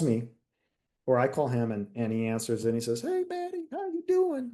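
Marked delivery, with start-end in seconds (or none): 3.0-4.5 high, smooth put-on voice of a charming sergeant; Herrera's smooth voice. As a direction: imitate the smooth Cuban sergeant greeting. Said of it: "he had this kind of, like, you know, uh, voice".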